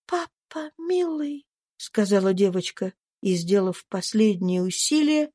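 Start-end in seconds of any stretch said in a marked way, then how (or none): 0.1-1.5 put-on high, much softer child's voice; a dying girl's last tender effort; faint little girl. Eva greets her father with her last strength, faint child's voice.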